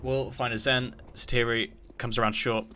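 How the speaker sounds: running kill-by-kill commentary; live play-by-play. Real, not acted. Caster tracking the round for viewers, live play-by-play. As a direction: call each kill as it lands.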